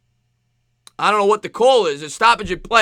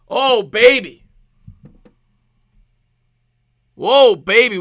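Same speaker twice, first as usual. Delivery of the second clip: thrilled exclamation; 3 dB louder, slower than usual. Real, not acted. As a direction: savor the big play. Thrilling late-game play.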